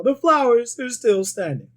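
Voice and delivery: loud, high triumphant movie line; Bill Murray quote. Retold or imitated. Fan quoting Bill Murray, loud and proud.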